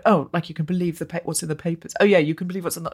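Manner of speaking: imitating a dismissive, sarcastic reply; sarcastic retort. Panellist scoffing at trust in the papers, mildly sarcastic. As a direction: retell it with understated sarcasm. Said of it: "really sarcastically".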